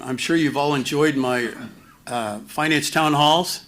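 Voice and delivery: mildly sarcastic, mock-appreciative. Real, not acted. Finance speaker jokes about his own town halls, sarcastic. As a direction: say it with dry sarcasm. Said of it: "he said sarcastically".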